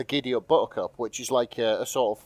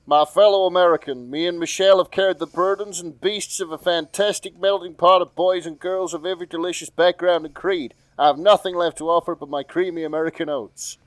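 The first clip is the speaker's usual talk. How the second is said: higher, louder presidential speech voice; Obama impression; 5 semitones higher, 5 dB louder than usual. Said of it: "Obama still sounds like Obama".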